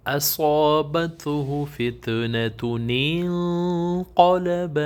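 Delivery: slow chanted recitation, the نون sounded; Quran recitation. Shown as a demonstration. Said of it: "یہ نیچے ایک word ہے". (تلاوت، نون واضح پڑھ کر)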